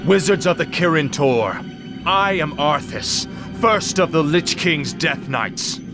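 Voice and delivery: booming, echoing high death knight voice; a distorted, otherworldly proclamation; ancient rasping undead king. Acted. Death Knight booming demand at gates.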